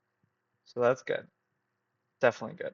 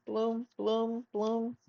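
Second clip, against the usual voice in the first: imitated charger sound; 8 semitones higher, 4 dB quieter, slower than usual. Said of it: "my charger keeps on just going bloom".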